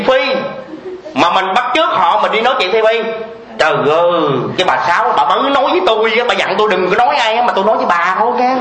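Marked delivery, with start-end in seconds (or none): 3.6-8.5 quick hushed-secret gossip patter, fast; lightly voiced gossip; gossiping woman. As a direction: rattle it off like spreading a secret.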